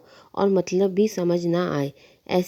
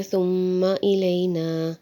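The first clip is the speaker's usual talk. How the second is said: recitation; much slower than usual. Shown as a demonstration. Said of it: "ملا کر پڑھ سکتے ہیں".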